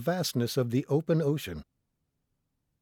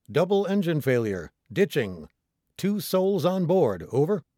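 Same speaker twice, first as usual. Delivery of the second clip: raised, urgent mayday into the radio; distress call; 4 semitones higher, 4 dB louder than usual. Acted. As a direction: call for help, loud and insistent.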